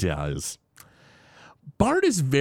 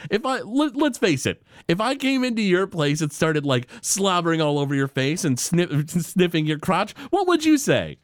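imitating Mr. Burns; 7 semitones higher than usual. Burns mocks Smithers' dog pitch, in a high scornful voice. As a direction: sneer it like a crotchety billionaire. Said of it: "He's like".

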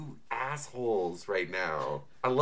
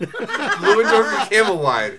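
laughing repeat; 7 semitones higher, 10 dB louder, slower than usual. Real, not acted. Player mockingly repeats silly name.

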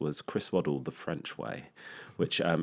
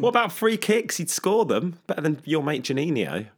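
mock outrage; 9 semitones higher than usual. Real, not acted. Laughing mock outrage in argument.

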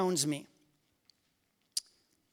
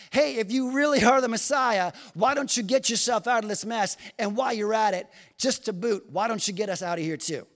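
mildly mocking jeer, raised at first; teasing taunt. Criminal taunting Jesus beside him, teasing. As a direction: needle him, tapering off by the end. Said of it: "making fun and teasing Jesus".

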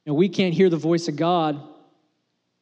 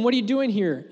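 raised storytelling voice; 5 semitones higher than usual. Retold or imitated. First retelling of God's question.

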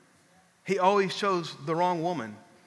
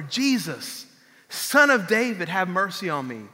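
blind beggar crying out, a bit louder on Son of David; mild mock holler; 3 dB louder than usual. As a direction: call out to Jesus as a beggar would. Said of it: "he begins to holler".

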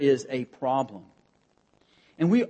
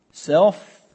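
self-address; 4 semitones higher, 7 dB louder than usual. Retold or imitated. Paul addressing his own soul.

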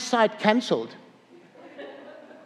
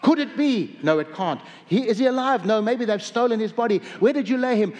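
breathless, higher, half-believing questions; fearful excitement; 3 semitones higher than usual. Acted. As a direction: voice the women's hope and doubt at the tomb. Mix of fear and excitement.

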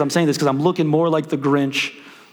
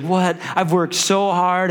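near tears; 4 semitones higher, slower than usual. Retold or imitated. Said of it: "on the verge of tears".

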